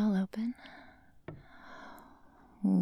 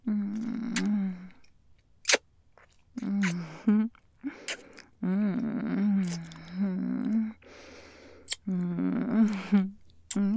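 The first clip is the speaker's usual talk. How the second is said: seductive; 4 dB louder, much slower than usual. Acted. Sensual roleplay, humming moans.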